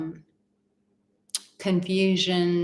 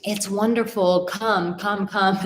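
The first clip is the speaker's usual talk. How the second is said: fake cheer; 3 semitones higher than usual. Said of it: "falsehood of".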